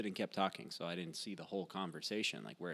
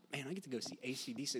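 quick, eager retelling of his thrill; excited quote; 4 semitones higher, 5 dB quieter, faster than usual. Retold or imitated. Telling a friend about his thrill over the concert, quick and eager. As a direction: gush about seeing the band. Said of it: "I'm like".

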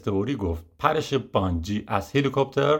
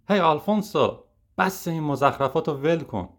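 higher, calling across the set; yelling; 6 semitones higher than usual. Acted. Charlie Mack calls out to the host, raised voice. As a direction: shout it over at the host. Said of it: "چارلی مک داد زد".

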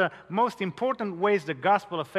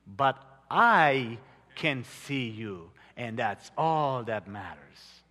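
calm reply; 5 semitones lower, slower than usual. Acted. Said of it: "The father replied".

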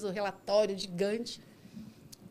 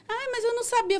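very high mimicked excuse; excuse-making passenger; 13 semitones higher than usual. Passenger claims she did not know about the street party, defensive. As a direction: imitate her protesting up high.

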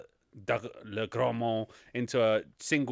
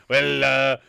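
building to a loud comic question; mock puzzled questioning; 7 semitones higher, 10 dB louder, faster than usual. Host mimicking a friend unsure who died, mock bafflement. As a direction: imitate a baffled viewer, getting louder.

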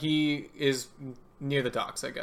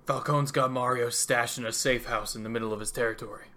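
lightly gruff villain voice; rough-voiced crime boss giving information; gruff Two-Face. Crime boss reveals a rival's hideout, gruff. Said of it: "I'm ruining my voice doing this".

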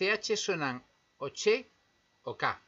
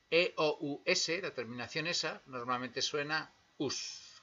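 normal talking voice

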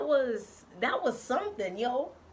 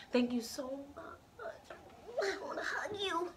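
soft, slow heartfelt thanks; tender; 5 semitones higher, 8 dB quieter than usual. Real, not acted. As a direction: say it softly with affection.

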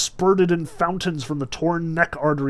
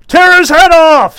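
high, loud, harsh demand; severe shout; 13 semitones higher, 15 dB louder than usual. A narrator's reading. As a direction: yell it down from the gallery. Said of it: "said severely".

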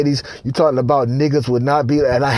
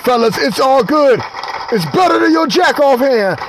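hyped testimonial; 4 semitones higher than usual. Acted. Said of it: "he said".

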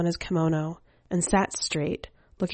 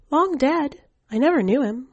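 lightly voiced small boy, higher; young boy; 8 semitones higher, 4 dB louder than usual. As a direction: give the boy's line a higher child's pitch. Boy speaks of his father.

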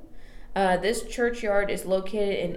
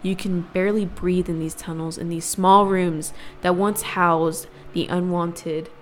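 spooky storytelling. Acted. Spooky scene-setting narration.

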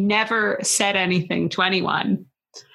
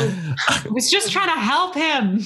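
slightly higher, drawn-out mock hurt; upset old lady; 4 semitones higher, slower than usual. Co-host as the old lady justifying her remark, upset. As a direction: draw it out like a lightly voiced wronged lady. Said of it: "made her even more upset".

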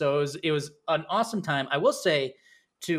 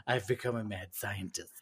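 mock mad scientist; 6 semitones lower, 9 dB quieter than usual. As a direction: draw it out like a playful villain. Mock confession of turning villain.

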